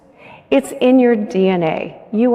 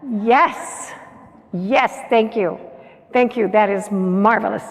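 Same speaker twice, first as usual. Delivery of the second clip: grateful yes. Shown as a demonstration. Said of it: "what's your new word now?".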